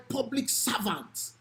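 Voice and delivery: "public servants" slowed down and weighted, each word leaned on; emphasis on public servants. Shown as a demonstration. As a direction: lean hard on "public servants" so it lands. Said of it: "emphasis on the word public servants".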